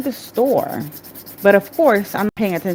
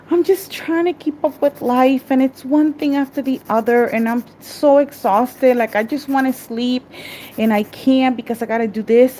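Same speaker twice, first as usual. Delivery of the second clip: overwhelmed, near tears; 3 semitones higher than usual. Real, not acted. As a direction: let the worn-out frustration push the pitch up. Overwhelmed mom venting near tears.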